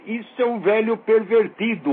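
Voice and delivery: loud, high, drawn-out retort; mock indignant declaration. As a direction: proclaim it slowly and loudly, high in the voice. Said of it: "foi pra televisão e disse".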